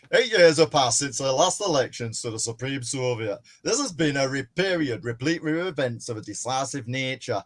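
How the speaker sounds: natural, understated northern English reading; speech read in a lightly done northern English accent. Acted. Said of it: "I'll do the northern one".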